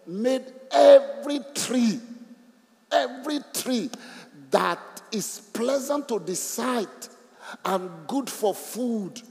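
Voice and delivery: preaching the verse with wonder; excited reading. Real, not acted. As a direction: marvel at every tree. Preacher exclaims while reading verse.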